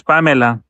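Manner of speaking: Pamela said the Spanish way; Pamela as in Spanish, with a clear "meh"; Spanish pronunciation. Shown as a demonstration. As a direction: say Pamela with open Spanish vowels, pah-MEH-lah. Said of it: "in Spanish it's".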